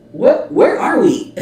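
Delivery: high, loud baffled outburst; bewildered disbelief. Real, not acted. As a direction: cry out, completely lost by the chaos. Bewildered by the chaotic interview.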